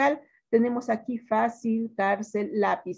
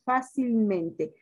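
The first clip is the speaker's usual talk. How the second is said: slow example word; much slower than usual. Shown as a demonstration. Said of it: "Por ejemplo".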